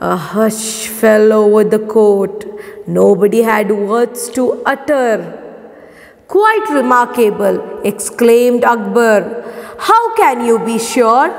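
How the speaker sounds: measured classroom read-aloud, dialogue lifted in pitch; story narration. A narrator's reading. Teacher reading Birbal's answer to pupils, story narration. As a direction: read the tale clearly, lightly raising the characters' lines.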